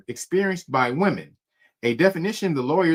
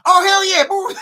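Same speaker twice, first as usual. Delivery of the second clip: high, loud whoop through laughter; overjoyed; 8 dB louder than usual. Retold or imitated. Friend accepting a fake interview, imitated excited shout.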